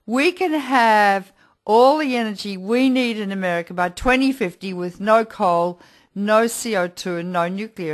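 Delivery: lightly imitated Southern accent, a little emphatic. Host recalls her guest's bold claim at the symposium, light Southern accent. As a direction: quote him with a hint of Southern accent. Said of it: "with your typical Southern accent and said".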